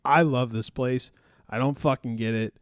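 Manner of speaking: hyped-up fan quote, loud at the end; mock excited fan shouting SEC love; retold fan quote. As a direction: quote the excited guy in the crowd. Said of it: "he literally was like".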